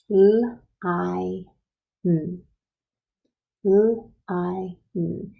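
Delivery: "L-I-N" as three held sounds: lll, long eye, nnn; "L-I-N" sound by sound, not letter names. Shown as a demonstration. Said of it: "think about the sound of that I".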